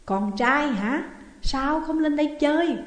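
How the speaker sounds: a ghost luring him, slow and sly; voice like tearing silk. Acted. The ghost invites Dự to come up, slow and eerie. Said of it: "giọng nói như xé lụa".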